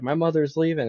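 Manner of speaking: mock little girl announcing it; little sister. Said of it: "And she's like".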